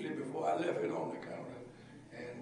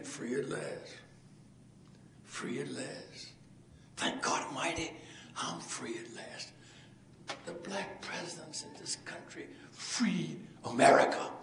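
hushed quotation; slower than usual. Retold or imitated. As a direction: breathe the words like a prayer. Quoting freedom speech softly.

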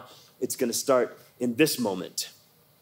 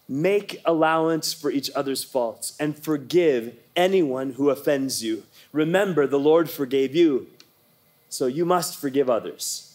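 reading scripture aloud. Shown as a demonstration. Pastor leading the church in reading a verse aloud, deliberate. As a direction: lead a group reading aloud, unhurried. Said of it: "read it out loud".

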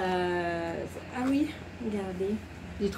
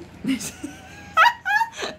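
high-pitched squealing laugh; helpless high laughter; real laughing fit; 4 dB louder than usual. Real, not acted. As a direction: crack up at your own nonsense. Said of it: "je rigole de mes conneries".

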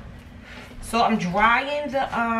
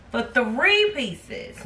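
slow emphatic repeat; much slower than usual. Shown as a demonstration. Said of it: "for four sixty-seven for three pieces".

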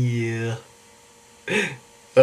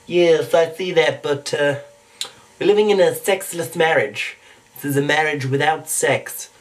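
cartoon character explaining; measured cartoon impression; Stewie Griffin. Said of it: "Stewie Griffin".

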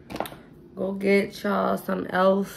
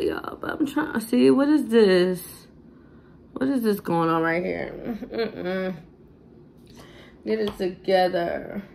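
tipsy. Real, not acted. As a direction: talk a little tipsy. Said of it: "beyond tipsy now".

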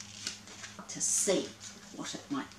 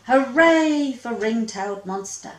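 cheered; 3 semitones higher, 6 dB louder than usual. Acted. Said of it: "cheered the monsters".

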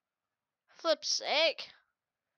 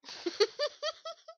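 thin, high stuttering laugh; high-pitched giggle. Real, not acted. Exasperated at the match.

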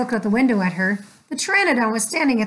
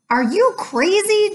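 high, louder call after her; 9 semitones higher, 3 dB louder than usual. Acted. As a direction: call her back, alarmed. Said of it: "Jack called".

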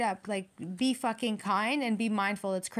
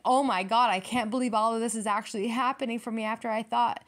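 loud "Oh my God", then easing off; amazed outburst; 4 dB louder than usual. Retold or imitated. Spirit's tower blessing, a loud amazed cry. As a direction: gasp it out like the news just landed. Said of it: "the tower is going to be like".

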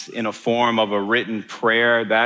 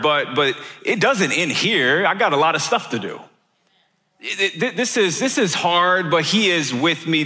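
higher-pitched, insistent self-correction; retold dawning realization; 5 semitones higher than usual. Patient talking himself back to faith, mounting conviction. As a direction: relive the realization, pitch lifting as it builds.

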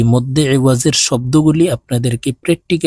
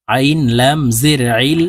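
slow spelling out; slower than usual. Shown as a demonstration. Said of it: "বানান করে বলে দিচ্ছি".

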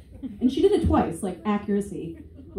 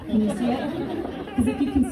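coaxing; 3 semitones higher than usual. Pretend. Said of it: "close your eyes with me".

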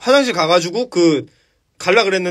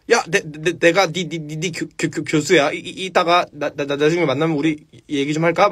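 stuttering professor; 2 semitones lower than usual. Retold or imitated. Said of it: "막 이렇게 하는 사람이야".

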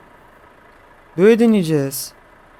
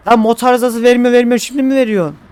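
exasperated; 6 semitones higher, 3 dB louder than usual. Real, not acted. Engine fault on a steep road.

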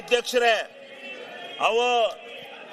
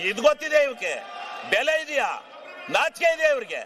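scornful shouted questions; real furious heckling; angry shout. Real, not acted. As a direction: fire off the jeers in outrage. Heckling opponents in assembly.

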